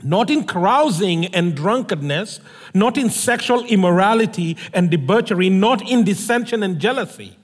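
measured, solemn Bible reading that fades at the end; scripture reading. Acted. Reads the Bible passage aloud.

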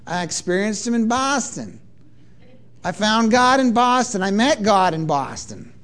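lightly put-on Boston vowels; a touch of Bostonian; Boston accent. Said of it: "people who talk like that".

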